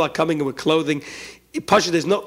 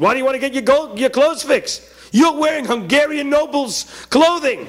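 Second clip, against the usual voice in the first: mock incredulous; 7 semitones higher than usual. Townsman teasing the pajama wearer about noble clothing, high and mocking. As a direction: tease him with mock shock.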